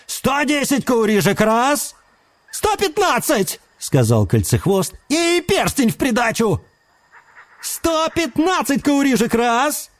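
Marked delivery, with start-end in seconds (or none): 0.1-2.0 auctioneer call. Acted. Auctioneer calling bids. 2.5-3.6 high, keen bidding cry; eager bid call. Acted. Bidder calls out. 5.1-6.6 eager bid. Acted. Bidder adds ring. 7.6-9.9 high, delighted auction call; rapturous auctioneer rattle. Acted. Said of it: "восторженно протарабанил Мэтт".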